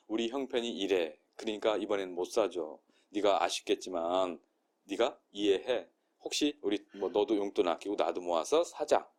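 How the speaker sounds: 낮고 느리게 달래듯; calm mother. Shown as a demonstration. 엄마가 아이를 달래는 말 재현. (아이를 달래는 차분한 엄마 말투)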